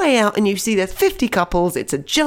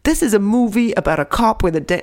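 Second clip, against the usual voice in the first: tentative Will Smith impression; 3 semitones higher than usual. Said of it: "shall I try?".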